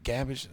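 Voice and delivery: "Garbage" echoed as GAB-idge; puzzled echo. Retold or imitated. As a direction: repeat "Garbage" without the r, questioning. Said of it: "they're like".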